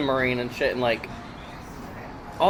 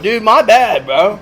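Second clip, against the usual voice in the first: higher laughing apology; 5 semitones higher, 6 dB louder, slower than usual. Real, not acted.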